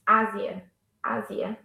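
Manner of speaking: Ásia stressed on open "Á"; stress on first syllable. Shown as a demonstration. Teacher modelling the accented word, "Ásia" stressed on Á. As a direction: say "Ásia" as A-zia. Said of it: "we also use the accent".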